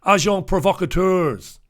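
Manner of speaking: Agents provocateurs in a French way, slow and careful; French words. Shown as a demonstration. Careful French try after admitting he can't do the accent. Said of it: "I can't do the accent".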